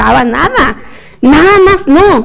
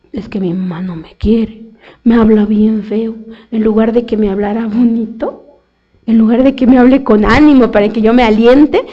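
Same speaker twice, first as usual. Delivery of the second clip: put-on whiny sulking child; 3 semitones lower than usual. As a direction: sulk like a hurt kid about mom. Child complains about mother.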